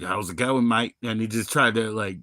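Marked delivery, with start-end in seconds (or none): 0.0-1.0 understated imitation of an Aussie passer-by; lightly voiced Australian accent. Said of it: "he's like".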